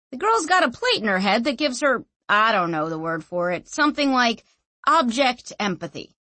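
lightly voiced chatty know-it-all; casual explainer character. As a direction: explain it offhandedly, a little animated. Narrator voices Clef explaining.

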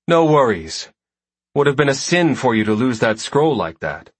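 lightly voiced confident warrior woman; easy, friendly swagger; Val Helena voice.

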